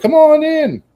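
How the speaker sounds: put-on very high squawked old-man call; parrot mimicking old man. Delivery guy retells the parrot's call, high squawk. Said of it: "And he's like".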